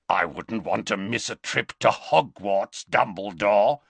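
lightly rasped werewolf voice. Acted. Greyback to Dumbledore, a hungry rasp. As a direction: rasp it with hunger. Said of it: "rasped Greyback".

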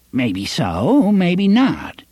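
put-on high quavery temporizing old man; quavering old man. A narrator's reading. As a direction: stall them in a shaky old voice. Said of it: "quavering voice".

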